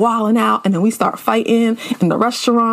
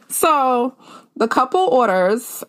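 usual speaking voice

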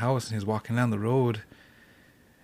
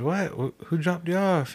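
higher, drawn-out disbelieving question; mock puzzlement, pitched up; puzzled questioning; 6 semitones higher, slower than usual. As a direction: retell her baffled question. Retold questioning by disbelieving mother-in-law.

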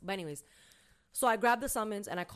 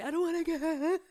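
mom; 7 semitones higher, 3 dB louder than usual. Retold or imitated. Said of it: "She's free".

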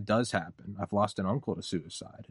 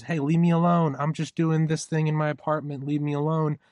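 raised, higher, exasperated plea to be left alone; leave me alone; 5 semitones higher, 3 dB louder than usual. Retold or imitated. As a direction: push them off, louder and higher, annoyed. Fed-up person pushing back.

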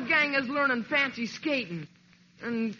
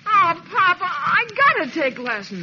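higher and louder, begging his dad; pleading whine; 5 semitones higher, 3 dB louder than usual. Acted. Son begging his pop for skating lessons, pleading whine. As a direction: wheedle like a desperate teenager.

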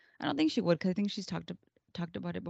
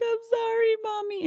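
put-on high-pitched little-kid apology; high, childish put-on voice; little boy; 6 dB louder than usual. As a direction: imitate a small child saying sorry to mom. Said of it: "And then the little boy".

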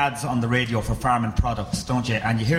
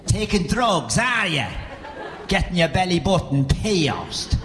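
high-pitched, indignant father impression; disapproving father; 4 semitones higher, slower than usual. Father berates son for moving to Dublin, mock indignant voice. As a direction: scold like an outraged country father. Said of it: "my father hated me moving to Dublin".

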